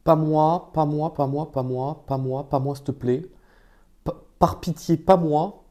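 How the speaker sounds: pleading food voice. Acted. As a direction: beg for mercy as the bite. Voicing the bite pleading.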